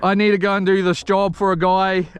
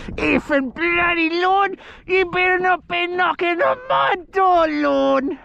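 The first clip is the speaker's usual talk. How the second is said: mock angry wife; 10 semitones higher than usual. Fishing vlogger mocks wife Lorna's scolding, high put-on voice. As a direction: squeak it out like a nagging wife, hammed up. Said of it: "that was a bit much".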